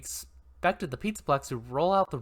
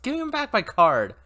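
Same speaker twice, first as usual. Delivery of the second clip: shouted high and loud at the machine; angry shout; 9 semitones higher, 6 dB louder than usual. Acted. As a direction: yell it, demanding the card back. Angry shout at broken kiosk.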